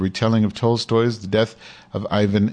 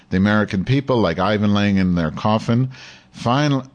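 lightly heightened reading voice, a bit more lift than his asides; article read aloud. Acted. Host reading an article to his audience, lightly dramatic read. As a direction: read the op-ed out like a column on air.

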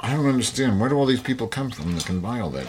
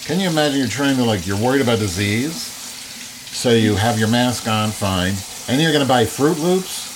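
incredulous; 5 semitones higher than usual. Real, not acted. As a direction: stretch out the disbelief. Mocking a shopper's choices.

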